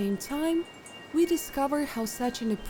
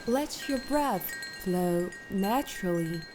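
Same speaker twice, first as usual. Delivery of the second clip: calm, unhurried instructions with long pauses; guided meditation; 6 dB quieter than usual. Acted. Meditation guide settling listeners into posture and breath, calm guided meditation. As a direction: lead them gently through settling and breathing.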